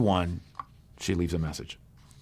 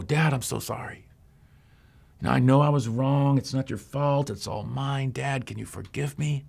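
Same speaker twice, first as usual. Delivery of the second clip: higher, pleading, contrite; pleading apology; 5 semitones higher than usual. Acted. Daughter rehearsing her plea to her dad, higher and contrite. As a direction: beg forgiveness with a lifted voice.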